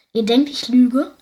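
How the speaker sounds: loud indignant burst; outburst. Acted. Mina erupts at her family, loud and indignant. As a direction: hurl the question back at them. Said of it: "brach es aus Mina heraus".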